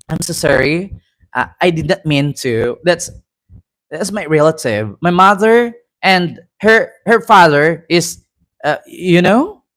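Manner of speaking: hesitant attempt at a British accent; mock British accent. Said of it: "hindi tayo mag-British accent".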